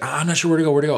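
high, anxious mock panic; nervous driver. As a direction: play the lost, rattled driver. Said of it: "she's like".

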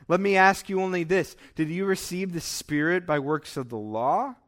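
emphatic, measured Bible reading with lifted questions; scripture reading. Acted. Preacher reading Paul's rebuke to the congregation, emphatic scripture reading. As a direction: read it out as a pointed rebuke. Reads scripture passage aloud.

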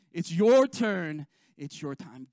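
peak the refrain, then let it fall; loudest refrain. Shown as a demonstration. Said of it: "Say that with me".

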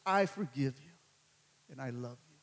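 low tender forgiveness after the shouting. Retold or imitated. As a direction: say it gently, almost tender. God's quiet forgiveness after shouting.

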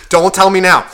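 loud, irritated retort; annoyed snap again. Retold or imitated. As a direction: shut him down firmly.

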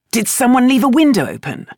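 scowling question. A narrator's reading. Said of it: "scowling as he glanced around".

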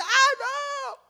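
grito agudo de protesta; grito actuado. Acted. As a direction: suelta un grito dramático, muy agudo y sostenido. (grito fingido de angustia)

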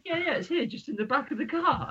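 high, giggling imitation of the buyer; laughing mock quote. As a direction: quote him while cracking up. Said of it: "And he said".

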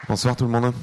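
a bit of a robot voice; slight robot voice. Real, not acted. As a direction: greet them in a half robot voice. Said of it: "J'ai une voix de robot un peu".

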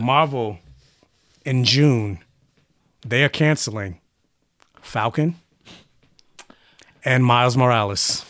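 low, halting announcement with long pauses; dramatic reveal. Real, not acted. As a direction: break the bad news piece by piece. Breaking bad news piece by piece.

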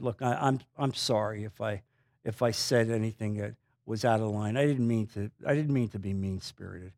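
low, soft, halting apology; lightly acted contrition, voice dropped; retold apology. Offering his hand to the man afterwards, subdued apology.

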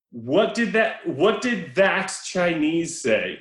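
hint of hard-boiled movie detective; lightly acted noir delivery, drawn out; film noir tough guy. Retelling a film line to co-hosts, mock noir. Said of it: "we instantly go into film noir".

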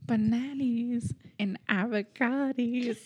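drawn-out comic singer lilt; avocado bit. Pretend. Friend obliging a request for the avocado thing, hammed-up drawl. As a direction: stretch the words out, hammed-up. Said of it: "do the avocado thing again".

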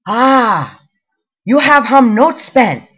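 put-on "you have hum not spent" slow and loud in a heavy Asian accent; thick Asian accent. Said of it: "thickest Asian accent I have ever heard".

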